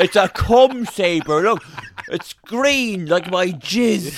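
slow, high giggling through the words; laughing mock line. Joking about Star Wars to a friend, laughing slowly. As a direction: crack up while hamming it up.

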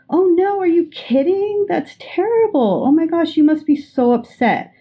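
match the friend's alarm with a big "oh no"; matching their alarm. Acted. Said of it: "What they probably want you to say".

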